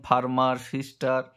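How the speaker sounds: ফার্মার and সিস্টার each in two parts, far-mar, sis-tar; syllable by syllable. Shown as a demonstration. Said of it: "দুখানা যদি ভেঙে উচ্চারণ করি". (ফার্মার, সিস্টার দুই ভাগে ভেঙে)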